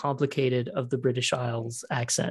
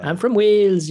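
put-on thick Welsh accent; 6 semitones higher, 9 dB louder than usual. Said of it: "you can have a very thick".

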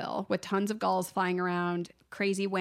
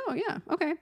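mock agreement; 9 semitones higher, faster than usual. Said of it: "He's like".

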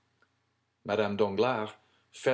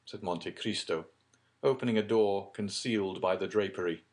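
plain reading voice

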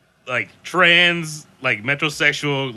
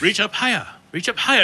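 put-on old man voice; 8 semitones higher than usual. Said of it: "He was like".

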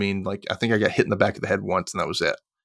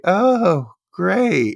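sarcastic; 8 semitones higher, 4 dB louder than usual. Retold or imitated. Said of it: "She's like".

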